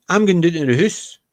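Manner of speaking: lightly imitated Glasgow accent, said to a friend; a hint of broad Glasgow speech. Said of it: "he would do the very broad Scottish accent".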